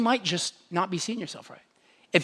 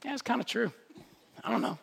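shrugging agreement; 3 semitones higher, 7 dB quieter, faster than usual. Retold or imitated. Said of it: "you're like".

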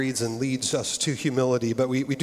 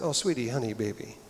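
gentle reassurance; 5 dB quieter than usual. Retold or imitated. Counselor Sandy gently reassuring the scared couple, soft and tender. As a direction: soothe them like a worried child. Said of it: "almost like".

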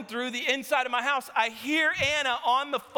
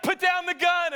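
loud, higher barked command; police shout; 10 semitones higher, 3 dB louder than usual. Retold or imitated. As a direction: shout down the man holding a gun. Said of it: "They're like".

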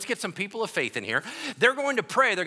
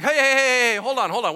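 much higher and louder calls to stop; Jesus stepping in to stop the quarrel, loud; breaking it up; 8 semitones higher, 10 dB louder than usual. Acted. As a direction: cut into the fight loudly. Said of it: "he's like".

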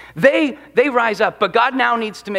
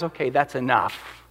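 firm warning; 8 semitones lower, 6 dB quieter than usual. Retold or imitated. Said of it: "and God goes".

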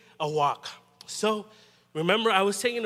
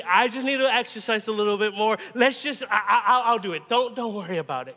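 stubborn insistence; 2 semitones higher, 5 dB louder than usual. Retold or imitated. Preacher voicing himself refusing Jesus's help, loud and stubborn. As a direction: insist you'll carry it yourself. Pushing Jesus away, taking backpack back.

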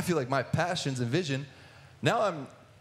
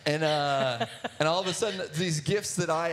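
laughing; 3 semitones higher than usual. Real, not acted. Laughing about covid.

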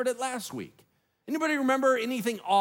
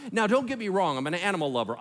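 usual speaking voice

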